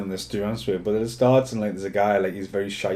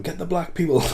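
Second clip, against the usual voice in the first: retold shout; 9 semitones higher, 4 dB louder than usual. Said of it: "guy keeps shouting".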